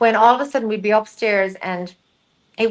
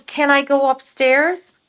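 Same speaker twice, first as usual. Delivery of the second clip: mock tearful woman; 5 semitones higher, slower than usual. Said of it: "she's crying and crying and crying".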